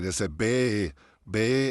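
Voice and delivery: बे said slanted into an e; बे instead of बी, a slanted vowel; wrong slanted ee. Shown as a demonstration. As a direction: demo the faulty बे. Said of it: "ऐसे नहीं करना है".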